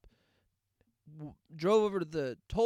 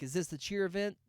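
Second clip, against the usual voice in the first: mocking imitation; 4 semitones higher than usual. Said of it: "Don't say, like".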